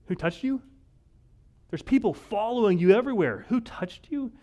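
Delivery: building from puzzled to loud and high disbelief; mock exasperation, rising to a near shout; incredulous disciples. Disciples incredulously question Jesus.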